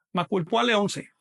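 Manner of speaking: "Macuil Puali once" stressed on each penultimate syllable; llana pronunciation. Shown as a demonstration. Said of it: "Se pronuncia siempre llana".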